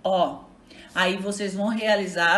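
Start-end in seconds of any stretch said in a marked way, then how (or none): 0.0-0.4 "Ó" said alone as one open vowel; isolated stressed syllable. Shown as a demonstration. Teacher answering own question on stress, "Ó" as a lone syllable. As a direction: pick out "Ó" by itself. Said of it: "Onde está a sílaba tônica?".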